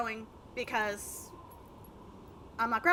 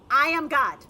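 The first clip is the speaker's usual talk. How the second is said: shouted proud claim; loud boast; 3 semitones higher, 9 dB louder than usual. Acted. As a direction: proclaim it loudly like a god. Jokes over game dialogue.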